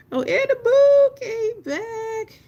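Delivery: light up as a friend returns; delighted squeal. Real, not acted. To Annaboo in chat, squealing happy and laughing.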